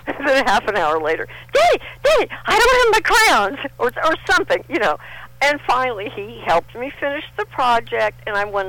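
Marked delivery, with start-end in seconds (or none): 1.5-3.7 put-on high, pleading little girl; whiny child. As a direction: beg like a small child. Child begging her father.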